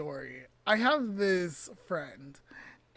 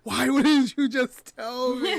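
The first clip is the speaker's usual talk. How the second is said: slow, loud, higher demand; angry question; 4 semitones higher, 7 dB louder, slower than usual. Retold or imitated. To her friend who let her say it wrong, angry. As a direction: press him for an answer. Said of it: "I was angry".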